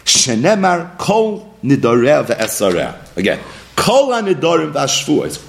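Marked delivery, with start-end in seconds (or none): 3.7-5.5 "Kol" given deliberate emphasis, then carry on; stress on Kol. Shown as a demonstration. Teacher rereading the Rambam to class, emphasis on "Kol". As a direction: lean on "Kol" as the key word. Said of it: "Emphasis on the word Kol".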